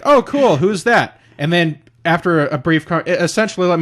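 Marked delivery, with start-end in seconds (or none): 0.1-1.2 mock excitement. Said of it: "And I was like".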